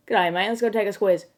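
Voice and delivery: lightly put-on Aussie accent; a hint of hammed-up Australian; mock Australian slang. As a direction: imitate an Aussie making a casual invitation. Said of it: "what Australian slang sounds like".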